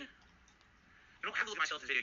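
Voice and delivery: rereading the viewer's comment slowly, word by word; slow it right down to make sure he read the comment right; slow careful reread. Shown as a demonstration. Rereading a viewer comment aloud, slowly and deliberately. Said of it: "are you saying it didn't get recorded".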